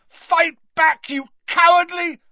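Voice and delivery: loud high scream, cut off; Harry. A narrator's reading. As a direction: keep screaming the challenge until interrupted. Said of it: "Harry screamed at him".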